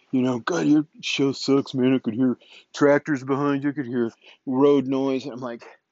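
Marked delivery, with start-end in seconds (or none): 0.4-5.2 play-acted, snarky, snide, sneering put-down. Retelling what a critic of the noisy show says: imitating a snide critic. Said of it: "anybody that makes some snide".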